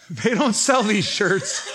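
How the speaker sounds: laughing through the line, slowed; laughing repeat. Real, not acted. Repeating the punchline to the church, laughing. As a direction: let the laugh break into it.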